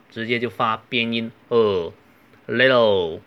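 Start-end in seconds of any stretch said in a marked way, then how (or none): 2.5-3.2 "little" loud, T melting into L; tongue to the upper tooth ridge, "little" as "li'l"; unreleased T. Shown as a demonstration. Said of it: "直接把舌尖顶在上齿的根部". (little不爆破T，舌尖顶住直接发边音)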